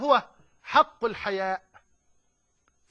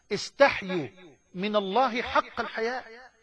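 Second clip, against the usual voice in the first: slow, deliberate recitation of the hadith; slowly. Shown as a demonstration. Preacher repeating the hadith for the crowd, slowly. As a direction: let each word land slowly. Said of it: "بالراحة كده يا مولانا".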